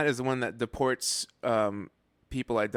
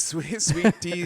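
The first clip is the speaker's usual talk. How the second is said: sassy Southern gay voice; 5 semitones higher, 4 dB louder, much slower than usual. Pretend. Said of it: "sassy Southern gay voice".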